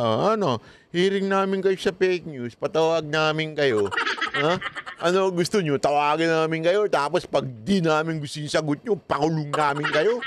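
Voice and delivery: high, taunting mock interrogation; mocking angry congressman. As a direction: jeer like a bullying congressman daring him. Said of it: "sasabihin nila". (nanunuyang galit na kongresista)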